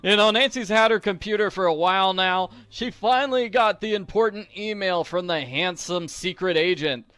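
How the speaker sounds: joking sarcasm, pushed up and loud; playful teasing. Real, not acted. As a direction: rib the game about the email. Teasing about Nancy's email.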